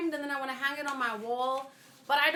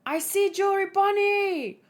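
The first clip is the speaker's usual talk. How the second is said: higher, louder character voice; excited call; 8 semitones higher, 4 dB louder than usual. Acted. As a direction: point her out eagerly. Character spots Bonnie.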